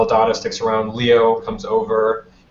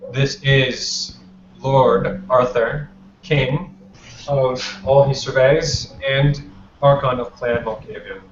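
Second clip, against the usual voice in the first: measured roll call, pausing between titles; lightly acted ceremonial presenting of each name; formal introductions. The Justicar introduces the Archons by clan, measured formal announcement. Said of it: "he turns and goes".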